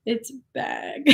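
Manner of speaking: bag with a bleating Wisconsin vowel, lightly done; drawn-out Wisconsin "bag" like a sheep's bleat; mock Wisconsin bag. Streamer imitating a Wisconsin accent for chat, soft and bleating. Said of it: "Like a sheep".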